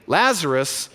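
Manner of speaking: plain solemn statement. Retold or imitated. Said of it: "said to them plainly".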